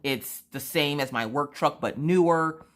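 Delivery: loud, emphatic amazement; retold thrilled outburst; asthmatic excitement. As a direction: imitate a husband blown away by the bargain. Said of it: "had the asthma that day".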